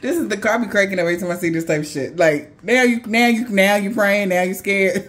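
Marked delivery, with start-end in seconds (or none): 2.6-5.1 mocking. Mocking the scared attacker.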